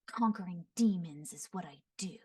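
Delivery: lightly raspy, half-whispered and crisp; a hint of a grim demon hunter, precise; Xiao's voice. Shown as a demonstration. Voice actor demoing a stoic warrior, lightly raspy. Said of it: "very raspy, very enunciated".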